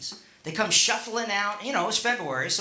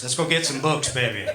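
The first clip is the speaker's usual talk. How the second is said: deep, smooth seducer's voice; imitating a singer; 4 semitones lower than usual.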